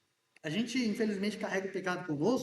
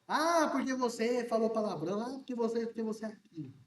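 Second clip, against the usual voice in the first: mock finger-pointing accuser. Preacher mimicking believers accusing a brother, mild mock scolding. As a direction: lightly play the judgmental churchgoer pointing fingers. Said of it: "A gente tem esse costume, né? De apontar o dedo".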